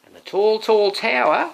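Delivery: high and loud, marvelling; climbing with awe; building wonder. A narrator's reading. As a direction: make the tower sound huge. Tower rising.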